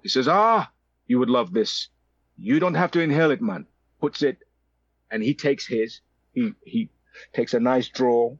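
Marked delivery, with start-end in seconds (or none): 0.3-3.7 raised-pitch South African enthusiasm; South African accent. Retold or imitated. Older man teaching cigar smoking, South African accent. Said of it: "with a South African accent".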